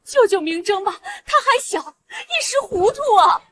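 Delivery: tearful pleading. Acted. Wife begging husband for nephew.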